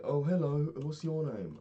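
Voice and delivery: high, loud, drawn-out hello; imitated shout. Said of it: "just shouted at me".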